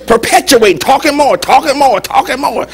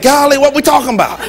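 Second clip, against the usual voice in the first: higher-pitched mock bewilderment; exasperated husband; 6 semitones higher than usual. Husband to wife who won't drop the argument, mock exasperated. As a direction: imitate a baffled husband protesting.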